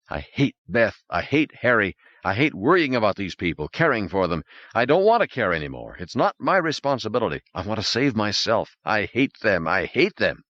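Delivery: rising resentment, hammering the word hate; a man's hateful inner voice; bitter inner rant. Acted. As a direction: spit out his hatred of them. Norman's inner outburst.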